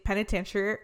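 PENITENTIARY with a muddled ending, like "peni-ten-shee-air"; mispronounced. Real, not acted. Host stumbling over the prison's name for her co-host, mispronounced. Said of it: "I kept saying it wrong".

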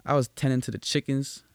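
slightly Western-twanged telling; attempted Southern accent. Shown as a demonstration. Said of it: "I don't know why I said it like that".

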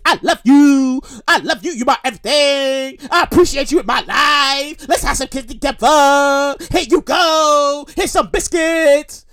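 drawn-out, hammed-up sweet talk; mock lovey-dovey, words held long; mock romantic declaration. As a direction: stretch the line endings like a cheesy suitor. Voices a cheesy Valentine's gift declaration.

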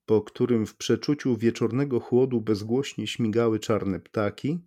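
ordinary delivery, nothing marked

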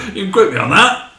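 put-on high, loud West Country accent; hammed-up West Country lecturer's catchphrase; Mick Temple. Explaining the lecturer to listeners, exaggerated West Country accent. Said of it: "who's from the West Country".

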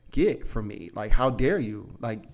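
angry dad. Retold or imitated. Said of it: "you know, anger".

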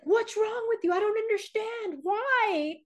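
high-pitched mock exasperation; imitating indignant son. Son protesting to his sister after the scare, mock indignant. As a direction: play the baffled, offended brother. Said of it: "And he's like".

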